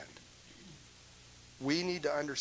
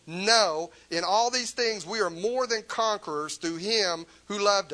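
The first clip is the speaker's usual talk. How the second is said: louder, rising preached verse; fervent pulpit declaration; preaching; 5 semitones higher, 9 dB louder than usual. Real, not acted. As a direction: proclaim it to the back row. Preacher reads the verse at full force.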